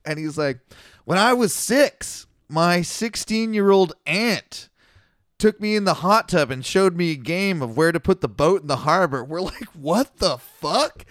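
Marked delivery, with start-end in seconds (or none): 1.0-9.2 put-on drunk old man. 9.7-11.0 slow, drawn-out shocked reaction; stunned disbelief. Retold or imitated. Group reaction retold.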